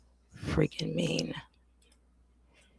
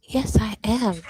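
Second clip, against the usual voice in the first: whispered relief; 5 semitones higher, 3 dB louder, slower than usual. Real, not acted. Relieved check she is live.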